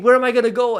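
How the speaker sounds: high, loud, worked-up question; acted baffled exclamation; exasperated outburst. Repeats the stranded outburst.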